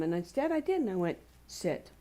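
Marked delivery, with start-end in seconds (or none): 1.5-1.9 low, calm, even "Sit"; steady and soothing, no yelling; calm command. Retold or imitated. Owner giving her excited dog a calm command. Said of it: "in a calm voice".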